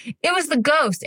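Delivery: put-on high child voice, hushed; high, innocent little-girl voice; kid blaming the ghost. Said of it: "she goes".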